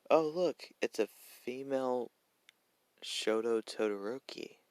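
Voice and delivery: high-pitched start, settling as it slows; slow, lightly acted surprise; lightly voiced Toga. Toga's line voiced in story.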